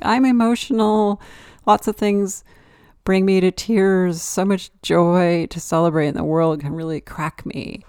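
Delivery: high, loud, gushing mock quote of a friend's letter. Reading back a friend's letter about happy tears, gushing mock voice. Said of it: "I received a letter back".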